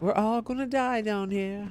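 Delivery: put-on high small girl voice. Reading a grim line from the game aloud: Resident Evil little girl voice. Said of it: "I hear that in, like, the, uh, the little girl voice from Resident Evil".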